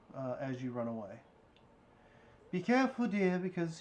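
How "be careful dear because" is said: high, loud, motherly hollering voice. Voicing a mother calling after her running child: mother hollering after someone. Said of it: "your mother does holler one thing off to you".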